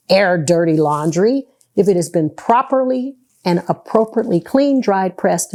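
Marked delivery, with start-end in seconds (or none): 1.7-3.2 "properly" set off with deliberate emphasis; stress on properly. Real, not acted. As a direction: lean on the word "properly". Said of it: "Emphasis on the word properly".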